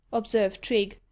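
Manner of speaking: plain reading voice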